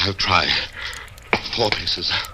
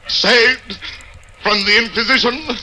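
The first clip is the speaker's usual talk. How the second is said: bitter irony; 6 semitones higher than usual. Acted. Jean to Beatrice realizing his torture is only delayed, bitter irony. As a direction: spit out the cruel joke.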